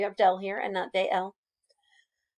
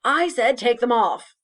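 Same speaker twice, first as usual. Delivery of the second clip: louder, emphatic mock scolding; bossy mom; 6 dB louder than usual. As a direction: order them like a fed-up mom. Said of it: "like, a mom being like".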